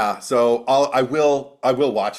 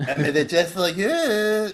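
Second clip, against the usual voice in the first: Spanish accent; 8 semitones higher, slower than usual. Shown as a demonstration. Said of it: "when he's doing a Spanish accent".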